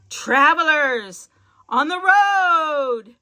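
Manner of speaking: slow, drawn-out witch screech. Acted. Witch spotting travelers, slow screeching call. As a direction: stretch it out like a cackling witch. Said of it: "she screeched".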